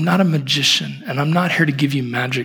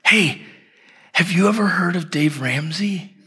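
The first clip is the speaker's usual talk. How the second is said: higher-pitched, lightly voiced little boy; lightly mimicked small boy, pitched up; young son; 4 semitones higher than usual. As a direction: imitate a six-year-old's eager question. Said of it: "Elliot says to the little girl".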